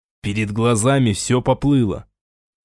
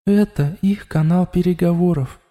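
higher, even, otherworldly voice; matter-of-fact inside his head; calm inner voice; 7 semitones higher than usual. A narrator's reading. The voice in Raul's head calmly informs him. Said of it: "спокойно сообщил внутренний голос".

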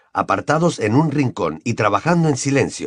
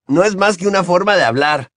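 Hermione's voice; 8 semitones higher than usual. A narrator's reading. Hermione greets Ron and Harry in a high girl's voice. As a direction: play the eager know-it-all girl.

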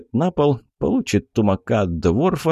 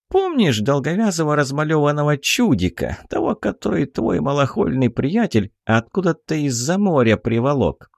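high, chatty pixie voice; a tiny fairy gossiping; 6 semitones higher than usual. Acted. Pixie speaks.

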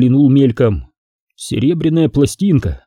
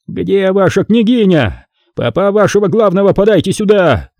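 angry demand; 7 semitones higher than usual. Acted. Tatar envoy demanding the princess from the boyars, angry shout. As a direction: storm in and demand.

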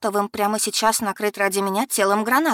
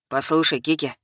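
lower, calming male voice; чуть ниже, успокаивающе; lightly voiced man; 3 semitones lower than usual. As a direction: lower a touch to calm her. Simon's voice, calming.

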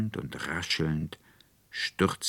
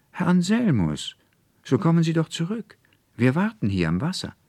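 much higher, louder shout after him; calling out; 11 semitones higher, 5 dB louder than usual. A narrator's reading. Konrektor Paulmann calls after the fleeing student, loud and high. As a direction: hail someone running away across the path. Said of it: "Die Stimme ließ sich wieder hören".

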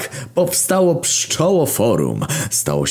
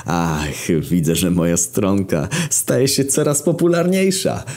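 pleased. Acted. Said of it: "ucieszył się".

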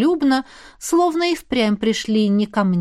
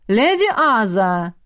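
медленно, протяжно зовёт; позвать сквозь закрытую дверь; зов из-за двери; slower than usual. Acted. (гость зовёт леди из-за двери)

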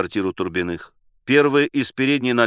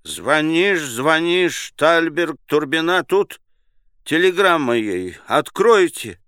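higher, pleading voice through a door; muffled pleading; 7 semitones higher, 4 dB louder, slower than usual. Acted. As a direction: beg to be let in. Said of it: "Приглушённый голос за дверью взмолился".

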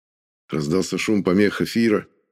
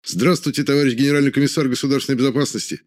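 formal military greeting; 5 semitones higher, faster than usual. Acted. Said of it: "сразу же поздоровались".

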